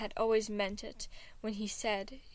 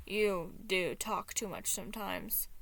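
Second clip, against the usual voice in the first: coolly. Acted. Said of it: "Anxiety told him coolly".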